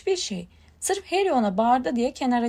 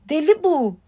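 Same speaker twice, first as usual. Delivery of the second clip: louder, higher, sceptical exclamation; doubtful; 4 semitones higher, 6 dB louder than usual. A narrator's reading. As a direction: voice full of doubt. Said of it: "kuşku dolu bir sesle".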